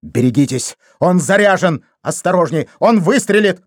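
high, slowed shouts; excited shouting. A narrator's reading. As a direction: yell warnings about the gun. Shouting in the struggle.

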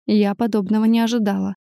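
ordinary delivery, nothing marked

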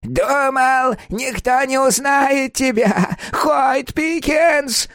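very slow, high, wailing accusation; old woman howling at Hoyt, drawn-out wail. Acted. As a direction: howl his name out. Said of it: "выла она".

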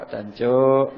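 a hint of an angry East Javanese man; mock angry curse. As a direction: snap the East Java swear word. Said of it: "Nggak ada orang marah".

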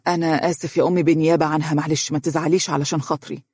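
quick then softening apology; apologetic. Acted. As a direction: gently apologize to mother. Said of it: "وقال معتذرا".

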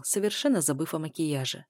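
ordinary delivery

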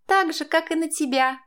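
high, snapped retort; snapping back. A narrator's reading. Stepdaughter snaps back at stepmother, angry. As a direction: snap it back at her. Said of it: "огрызнулась она".

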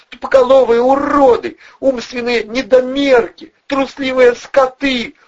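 high falsetto screech, loud and slow; falsetto yelling. A narrator's reading. Furious blonde berating Valeriy and Vovchik, high falsetto screaming. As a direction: scream insults in a shrill woman's falsetto.

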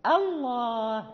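slow "الله" with a light opening hamza; thin hamza. Shown as a demonstration. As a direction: draw out "الله", first "a" kept thin. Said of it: "لا بد أن ننطق بالهمزة مرققة".

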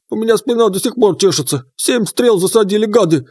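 high croaky frog spirit; lively croaking water spirit; frog creature voice. Acted.

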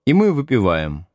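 usual speaking voice

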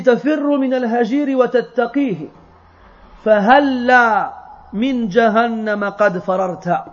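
poem recitation. Acted. Teacher reciting the poem's verses to students, measured recitation. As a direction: recite it as solemn classical verse.

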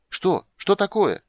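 very high, excited cry; shouted question. A narrator's reading. Bard behind Geralt demands news, crying out. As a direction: yelp the question, loud and eager. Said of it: "крикнул Лютик".

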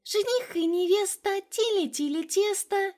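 put-on high childish singsong tease; little girl teasing her sister with a rhyme, high singsong. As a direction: chant it like a cheeky little sister. Child teasing chant repeated.

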